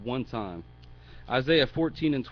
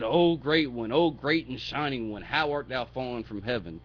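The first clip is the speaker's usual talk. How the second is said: mildly mocking hail; making fun. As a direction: praise him with tongue in cheek. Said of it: "He's making fun of him".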